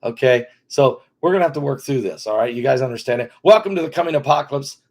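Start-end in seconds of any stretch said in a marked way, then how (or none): 3.4-4.8 fast, hammed-up doom announcement; mock dramatic warning. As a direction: announce the end of the world in jest.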